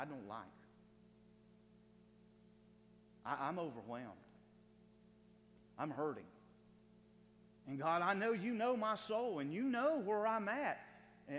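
a hurting believer crying out to God, rising; anguished prayer. Acted. Preacher voicing the psalmist's prayer, anguished then pleading loud.

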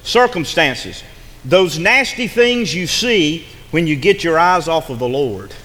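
slow, weighty definition; slow emphatic definition. Shown as a demonstration. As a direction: lay it out slowly for them to write down. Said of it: "and I want you to listen".

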